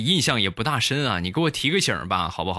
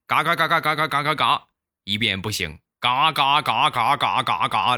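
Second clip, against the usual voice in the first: duck quacking. Shown as a demonstration.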